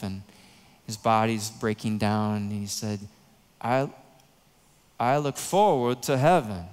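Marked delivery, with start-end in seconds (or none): 3.6-6.6 a self-admittedly poor imitation of Billy Graham's Southern accent, slightly louder. Pastor quoting Billy Graham's sermon in a weak imitation of his Southern accent. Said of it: "I can't do his accent worth anything".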